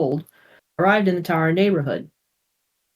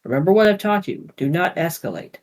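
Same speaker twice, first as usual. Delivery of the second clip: warning. Acted. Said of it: "warned his father".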